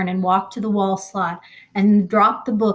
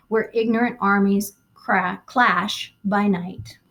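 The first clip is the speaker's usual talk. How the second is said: a touch of solemn verse reading; poem recital; 3 semitones higher than usual. Acted. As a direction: let the lines of the poem carry, steady and earnest. Reads the poem aloud.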